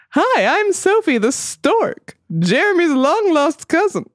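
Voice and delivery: high-pitched comic stork voice; old borscht belt comic. Acted. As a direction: ham it up as a chatty stork. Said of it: "Why am I doing this voice?".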